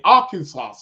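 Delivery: "Arkansas" said ARK-in-saw, with no s at the end; Arkansas the local way. Shown as a demonstration. Correcting himself for a listener, "Arkansas" ending in saw. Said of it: "That's how they pronounce it".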